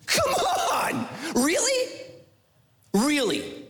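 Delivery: high, exasperated complaining voice; mock the whiner to God; high mocking whine; whiny complainer.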